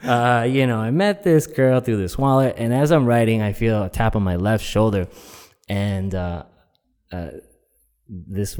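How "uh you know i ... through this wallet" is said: higher-pitched earnest diary voice; Doug Funny. Retold or imitated. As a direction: narrate like a cartoon kid journaling. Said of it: "kinda like Doug Funny".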